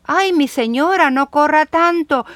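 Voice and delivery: gently hammed-up warning shout from the plants; plants crying out. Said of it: "así le gritan".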